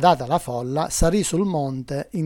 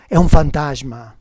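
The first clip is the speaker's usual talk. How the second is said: louder, startled exclamation; frightened cry; 8 dB louder than usual. A narrator's reading. Preacher voicing disciples who see a ghost, loud cry. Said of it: "non lo riconoscono e gridano".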